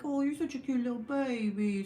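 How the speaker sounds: put-on baby talk. Mom to her tired baby, cooing. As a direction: coo over a little one.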